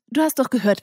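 "Du" punched high and loud; insistent reminder; stress on du. Acted. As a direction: hit "Du" hard as a reproach. Milla insists he heard her father.

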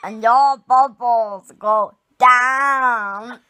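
slow, loud Brummie attempt through a laugh; Birmingham accent. Shown as a demonstration. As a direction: do your best Brummie, half laughing. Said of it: "That's a Birmingham accent".

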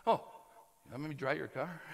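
low, soft imitation; little old car dryer. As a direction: offer meekly, lightly in character. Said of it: "and they went".

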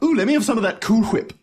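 "Cool Whip" with a breathy HW; "Whip" said hwip, H sounded; 1 aspirated hw. Acted. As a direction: blow air on the H of "Whip": hwip. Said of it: "putting so much emphasis on the H".

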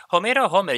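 "Homero" as o-ME-ro, then "Homer" with an English H; Spanish and English names. Retold or imitated. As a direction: contrast Spanish "Homero" with "Homer", stressed HO-mer. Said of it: "Yo digo Homer".

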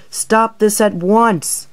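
high, loud and slow, demanding they stop; loud slow alarmed command; panicked order. Acted. Coldy lifted up by accident.

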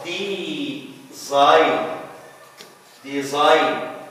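design as "de-ZINE", no g; design, long i running into n; silent G. Shown as a demonstration. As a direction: model design slowly with the G dropped. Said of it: "We don't pronounce it ga".

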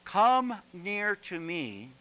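slow, drawn-out calling in; Elijah's invitation. Acted. Elijah calls all the people near, slow and inviting. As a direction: beckon the people gently. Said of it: "then Elijah said to all the people".

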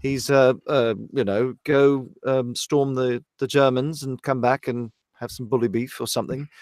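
clipped officer's British English, lightly hammed up; demonstrating an upper-class British voice; upper-class British accent. Shown as a demonstration. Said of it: "he's more like this".

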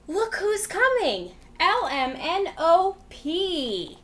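lively sing-song read-aloud voice; reading to children. Acted. Teacher reading a rhyme book to kids, lively and sing-song. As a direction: read it out like a storyteller for little kids.

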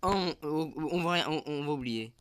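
high, loud nervous babble; panicky, trying to move on; scared horror game streamer. Real, not acted. Panicking after scary noise.

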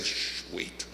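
very soft, whispered shush; retold hush. Preacher telling friend George to wait, whispered hush. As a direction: hush a friend under your breath.

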